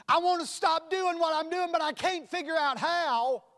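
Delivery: the chapter-seven Christian venting his misery; voicing the frustrated Christian. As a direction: cry out as the defeated believer. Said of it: "Chapter seven".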